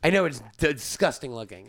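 slurry tipsy talk. Real, not acted. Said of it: "the other problem is I'm drunk".

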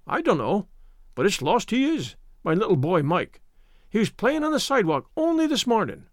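lightly voiced distraught Irish mother; a half-wailing lament for a lost boy; understated keening plea; mild wail. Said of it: "wailed Missus Murphy".

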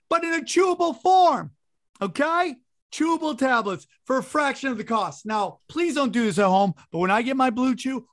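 hammed-up sponsor ad read. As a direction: sell it like a cheesy radio spot. Reads a sponsor ad.

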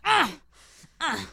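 small grunted "ah", dropping off; short throaty "ah"; little "ah" sound. Retold or imitated. Imitating the noise on a date, little "ah" sound. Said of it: "this little sound".

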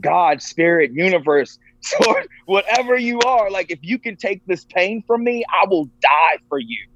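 high-pitched, imploring prayer, retold; desperate plea. Man on the floor begs God to take his pain, pleading. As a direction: beg for relief, voice pitched well up.

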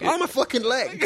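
high, giggling misquote; laughing mock yell. Co-host mimicking the yell while laughing. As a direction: blurt it through laughter.

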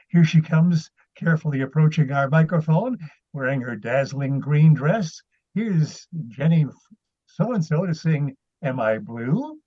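lightly voiced old-time radio announcer; bright showman intro, slowing at the name; 1950s narrator. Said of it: "I resorted to some of the old, uh, old-time radio announcers intros".

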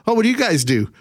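high curious voice; lightly voiced curious American; gullible American. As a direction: act the naive American asking.

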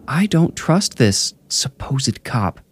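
high, slow, deliberate woman; Tara distrustful. A narrator's reading. Narrator voices distrustful Tara.

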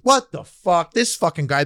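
cursing at a game. Retold or imitated. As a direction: curse like a frustrated gamer. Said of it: "cursing at a game".

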